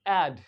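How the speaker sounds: "ऐड" as 'aed', low and falling; open 'ae' vowel. Shown as a demonstration. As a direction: say "ऐड" firmly with the vowel of "man". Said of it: "इसको अड नहीं पढ़ते".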